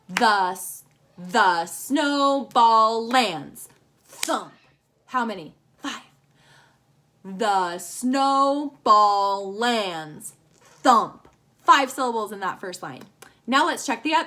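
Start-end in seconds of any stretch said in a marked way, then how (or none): 0.1-3.7 very slow, each syllable counted apart. Shown as a demonstration. Teacher counting syllables for the class, very slow and separated. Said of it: "We'll do this one like this". 7.2-11.3 very slow, each syllable counted apart. Shown as a demonstration. Teacher counting syllables for the class, very slow and separated. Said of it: "We'll do this one like this".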